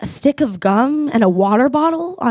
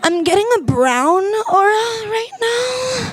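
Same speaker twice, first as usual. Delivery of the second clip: higher, chirpy LA barista; upbeat barista; 3 semitones higher than usual. Retold or imitated. LA barista upselling CBD, chirpy and light. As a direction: sell it sweetly, half laughing. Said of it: "they're like".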